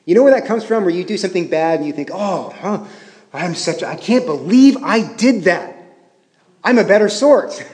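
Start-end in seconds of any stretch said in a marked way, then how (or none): 2.1-7.6 mock dismay at yourself, growing louder; self-reproachful disbelief. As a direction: act out someone appalled by their own slip. Voices indignant shock at one's own failing.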